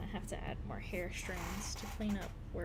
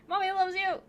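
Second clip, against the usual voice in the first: high, loud pet talk; 11 semitones higher, 11 dB louder than usual. Real, not acted. Calling the cat to come, high loud baby talk. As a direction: coax the cat loudly.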